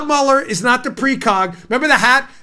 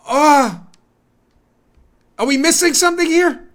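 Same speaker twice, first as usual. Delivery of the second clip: mock bewilderment, pitched up on the question; baffled juror; 2 semitones higher than usual. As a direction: play baffled, as if missing the point.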